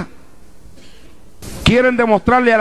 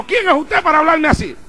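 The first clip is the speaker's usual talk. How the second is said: indignant retort; 5 semitones higher than usual. Retold or imitated. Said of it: "él me habló en voz alta".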